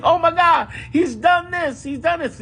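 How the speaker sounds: hammed-up freakout at the news; mock panic. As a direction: squeal it like a panicking fan. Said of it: "when you are freaking out".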